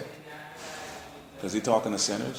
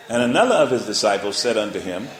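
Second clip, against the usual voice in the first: louder, deliberate verse opener; scripture reading; 4 dB louder than usual. Acted. Preacher opening the verse to the congregation, loud and deliberate. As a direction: announce the verse to the church.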